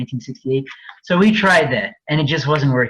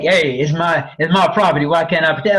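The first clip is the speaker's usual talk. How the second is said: alternative owner voice. Retold or imitated. Another owner objecting to housing law, lightly voiced. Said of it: "they could sound like anything".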